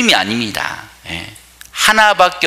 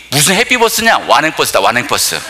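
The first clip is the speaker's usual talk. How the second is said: scornful granny retort. Retold or imitated. Granny retorts about the bus.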